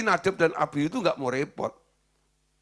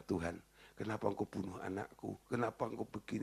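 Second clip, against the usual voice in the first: whining complaint; 5 semitones lower, 12 dB quieter than usual. Retold or imitated. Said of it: "Dia akan merengek-rengek dengan Tuhan".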